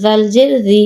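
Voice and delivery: no stretch on জি; short vowel. Shown as a demonstration. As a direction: end on a short জি. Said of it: "কোথায় দ্রুত পড়ি".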